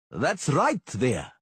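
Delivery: high, loud cheer; shouted back. A narrator's reading. Borch cheering Thea on, loud shout. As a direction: call back across the bridge. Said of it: "three jackdaws shouted back".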